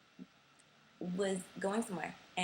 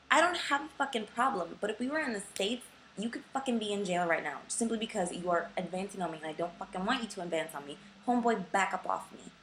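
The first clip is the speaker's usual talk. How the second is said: angry retort. Retold or imitated. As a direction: tell him off hard. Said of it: "And I'm just like".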